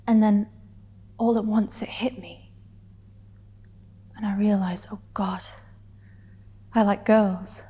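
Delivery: intimate confession building to hurt defiance, with long pauses; measured, emotional monologue delivery; dramatic monologue. Acted. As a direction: act it as a heartfelt stage confession, pausing between thoughts. Performs a scripted monologue.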